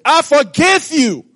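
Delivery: the king rebukes in anger; a stern king reminding of his mercy; angry king. Acted. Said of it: "the king got angry".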